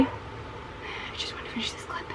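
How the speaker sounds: slow hushed whisper. Real, not acted. Whispering to viewers while dogs bark.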